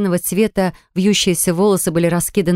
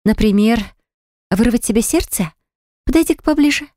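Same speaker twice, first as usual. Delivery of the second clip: angry retort; 4 semitones higher than usual. A narrator's reading. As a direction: dare her to come closer, heated. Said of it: "разозлилась я".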